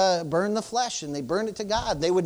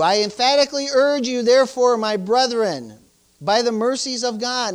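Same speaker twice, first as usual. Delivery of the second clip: forceful scriptural exhortation; emphatic urging; 5 dB louder than usual. Shown as a demonstration. Preacher urges brethren by God's mercies, emphatically. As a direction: drive each phrase home, loudest at the start. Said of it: "That's emphatic, right?".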